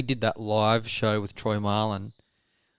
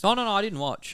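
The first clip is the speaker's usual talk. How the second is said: mocking the critic; 10 semitones higher than usual. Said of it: "and then he goes".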